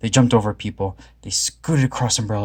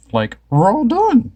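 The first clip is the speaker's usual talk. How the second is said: high, slow, louder Shaggy; satisfied Shaggy; 12 semitones higher, 5 dB louder, slower than usual. A narrator's reading. Shaggy telling the gang they're full, high and slow. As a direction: stretch it out, full and content. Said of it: "said Shaggy".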